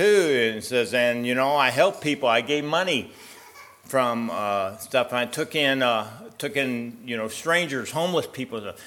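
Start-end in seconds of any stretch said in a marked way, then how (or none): 0.9-8.7 higher, louder eager addition; anxious man adding deeds. Acted. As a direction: push another good deed hopefully. Man listing charity at gate.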